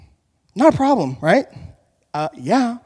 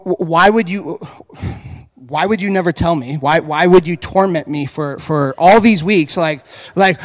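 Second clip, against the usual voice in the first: exasperated; 4 dB louder than usual. Retold or imitated. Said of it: "I was like".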